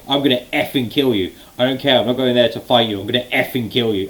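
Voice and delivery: heated threat, only half acted; intense mock threat. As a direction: imitate a wrestler threatening his rival. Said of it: "basically that intensity".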